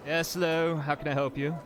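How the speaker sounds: a hint of a bored receptionist; bored clerk. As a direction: greet the visitor as a put-upon clerk. GM voices bored desk clerk.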